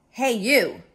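high, loud challenging call; pushy storybook bully hailing someone; grouchy ladybug. Acted. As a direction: call out to pick a fight. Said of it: "said the grouchy ladybug".

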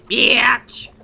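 hissed whisper of Bitch!. Shown as a demonstration. Player playing with the word, whispering it. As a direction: breathe the word Bitch! out unvoiced.

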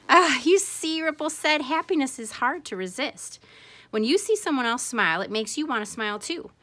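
high, lively explaining voice; bubbly teacher dolphin, pleased with herself; delighted dolphin. Acted. Ripple explains the ripple effect to Bob, delighted.

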